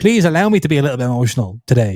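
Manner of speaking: ordinary talk, nothing marked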